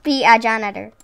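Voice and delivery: loud, playful mock British accent. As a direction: announce it in a put-on British voice. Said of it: "British accent".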